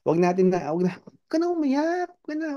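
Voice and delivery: very high, coaxing plea to stop crying; mock soothing. People hushing a crying mourner, very high coaxing.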